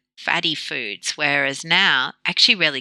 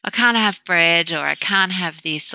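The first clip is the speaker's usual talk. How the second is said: mock lament; 2 semitones higher than usual. People lamenting about what they can't have, mock lament. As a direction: imitate someone lamenting their diet, dragging the words. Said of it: "there's a lot of lamenting about".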